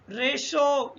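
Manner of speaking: रेशो slowly with T sounded as SH; slow, careful रेशो, second syllable starting SH. Shown as a demonstration. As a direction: demonstrate the SH in रेशो. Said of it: "शा का उच्चारण हो गया".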